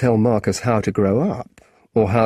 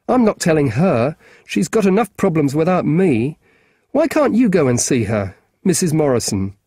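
put-on higher, eager young boy; lightly voiced keen schoolboy; a boy asking a grown-up a favour; boy's voice; 5 semitones higher, 3 dB louder than usual.

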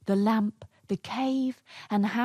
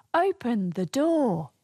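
a touch of a call-out, raised pitch; demonstrated shout; 4 semitones higher, 3 dB louder than usual. Shown as a demonstration. Storyteller showing listeners what to shout, mildly raised voice. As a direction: model a mild shout, higher.

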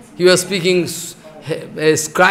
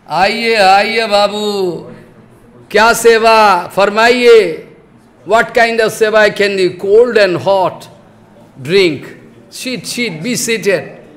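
a lightly voiced, louder, fawning shopkeeper; Marwadi shopkeeper; 2 semitones higher, 4 dB louder, slower than usual. Shopkeeper welcoming a customer into his shop, lightly fawning. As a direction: sweet-talk the customer into sitting down. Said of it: "There are Marwadi sitting in".

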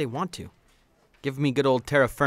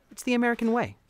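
mock patriotic flourish; 10 semitones higher, 3 dB louder, faster than usual.

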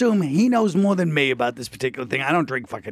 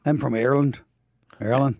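lightly put-on Belfast Irish accent; 3 semitones lower than usual. Chatting up a girl at the bar, in a light Irish accent. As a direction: plays his Irish alter ego Colin with a mild Irish lilt. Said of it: "I'll speak in Colin".

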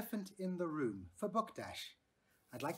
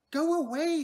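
shouting; 12 semitones higher, 11 dB louder than usual. A narrator's reading. Lindy shouting at the elephant.

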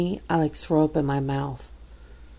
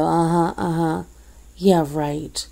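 mock pacifying; slower than usual. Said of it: "I just pacify you by nodding and go".

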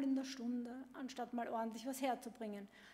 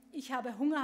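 loud whine; 6 dB louder than usual. Acted. Chick shouting demands at parents.

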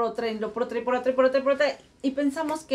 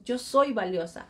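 reciting a mantra. Shown as a demonstration. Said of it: "todos los días empiézate a decir".

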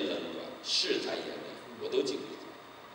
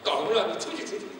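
raised, higher mock-stern officer voice; angry border guard; 6 semitones higher, 3 dB louder than usual. Officer shouting at the fugitive to get out, loud and stern. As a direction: bark it out like a guard refusing entry. Officer blocks him at the gate.

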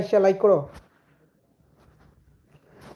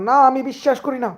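dramatic disbelief; 4 semitones higher than usual. Acted. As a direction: play the stunned lover refusing the news. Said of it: "সেই reaction". (উঁচু গলায় নাটকীয় অবিশ্বাস)

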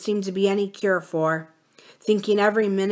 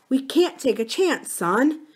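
sobbing; 6 semitones higher than usual. A narrator's reading. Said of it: "she sobbed".

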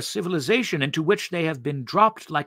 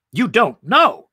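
higher and louder, shocked disbelief; cried out; 7 semitones higher, 7 dB louder, slower than usual. Acted. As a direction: cry it out in astonishment. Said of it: "she cried".

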